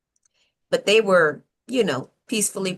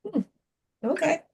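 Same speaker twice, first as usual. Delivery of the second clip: mock high sarcastic; 12 semitones higher than usual. Mocking the president's claim.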